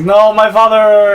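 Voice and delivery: long, high, loud hammed-up wail; mock insane wail. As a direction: stretch it out as a melodramatic cry. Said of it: "went literally insane and was like".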